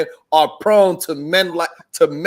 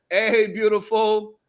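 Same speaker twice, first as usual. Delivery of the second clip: catcalling. Retold or imitated. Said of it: "hollering at something in a sexual way".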